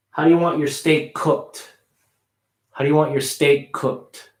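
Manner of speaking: "steak cooked" with a light K joining the two words; linked K demo; smaller K link. Shown as a demonstration. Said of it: "making the K a little smaller".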